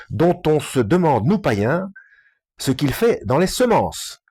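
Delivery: measured read-aloud of a scholarly book. Real, not acted. Reading a Talmud book aloud to listeners, measured delivery. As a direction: read out the chapter clearly, phrase by phrase.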